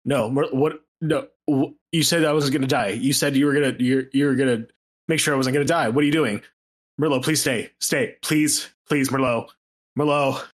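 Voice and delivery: freaking out, stammering and begging; desperate pleading. Acted. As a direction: beg not to be left to die. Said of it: "he just kind of pleads".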